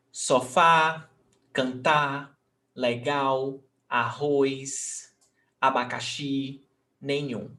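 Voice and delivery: level recited list, leaning on the end of "abacaxi" and "nenhum"; final-syllable stress. Shown as a demonstration. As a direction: list "sofá, cantar, legal" with each last syllable held. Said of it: "the last syllable as the stressed syllable".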